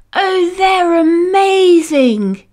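put-on high, slow delighted child; amazed exclaim. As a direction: marvel at the pyjamas slowly. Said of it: "he exclaimed".

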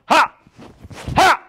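short, high, explosive "ha"; punchy kihap shout on each strike; martial arts yell. Shown as a demonstration. Instructor cueing the class to switch punches, yelling. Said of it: "So when I yell".

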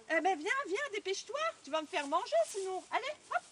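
loud coaxing call to a dog. Acted. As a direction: hurry the dog along, calling out. Soldier coaxes the dog.

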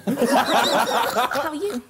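slow, loud, drawn-out greeting; a playful mermaid, stretched out. Pretend. Playing a mermaid on request.

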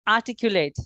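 teacher pronounces আর্টিকুলেট as a-ti-ku-let; pronunciation demo. Shown as a demonstration. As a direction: model আর্টিকুলেট for learners. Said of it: "কয়েকটা উচ্চারণ শিখাই দিই".

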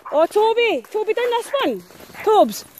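high call across the field. Real, not acted. Owner calling Toby to the swamp she found, high. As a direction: call him over, eager.

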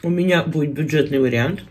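talking between bites; chewing while talking. Real, not acted. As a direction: mouth partly full. Seen 2: fish piece put to mouth at 0.3–0.8, then talks while chewing.

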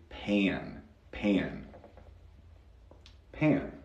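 "pan" with a drawn-out American a; gringo-accent pan. Shown as a demonstration. Teacher shows Spanish speakers the gringo accent, gringo-accent "pan". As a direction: say "pan" as a gringo would, vowel stretched before the n. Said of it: "pensar con ese acento gringo".

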